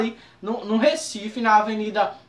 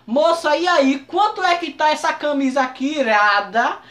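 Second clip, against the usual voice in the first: 1 slangy street greeting; 2 semitones higher than usual. Retold or imitated. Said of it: "meio na gíria".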